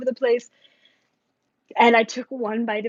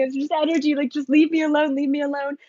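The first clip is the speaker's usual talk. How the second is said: a touch of a tearful, higher plea; mild mock crying plea; 5 semitones higher than usual. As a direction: lightly act out begging to be left alone. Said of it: "crying and crying".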